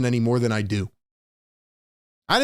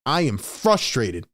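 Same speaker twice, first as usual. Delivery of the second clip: bold confidence; slower than usual. Pretend. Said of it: "speak profoundly and say".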